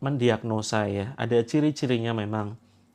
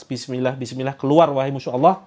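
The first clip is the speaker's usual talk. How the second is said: louder stern command to leave; firm rebuke; 6 dB louder than usual. Shown as a demonstration. Teacher shows how to command the jinn out, firm and loud. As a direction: rebuke the enemy of God firmly. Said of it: "ayo dibentak".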